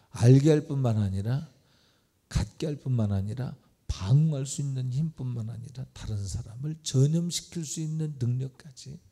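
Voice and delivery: loud preaching build. Acted. Preaching climax, building list.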